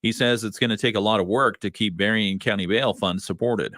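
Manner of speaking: measured radio newsroom delivery; news read. Real, not acted. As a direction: read it as a local news anchor. Reads the local news.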